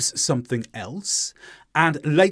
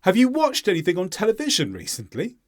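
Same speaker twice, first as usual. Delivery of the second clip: brisk higher question, "recently" lifting at the end; rising question ending; 5 semitones higher, faster than usual. Shown as a demonstration. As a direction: stress "watched", "television", rise on "recently". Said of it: "How would you say this?".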